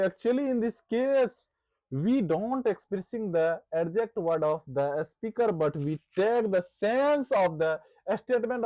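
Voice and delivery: the whole definition read slowly and evenly; slow dictation. Shown as a demonstration. Teacher reading the full definition aloud for notes, slow and measured. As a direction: read it out slowly for the class to copy. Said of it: "teacher reads the full definition".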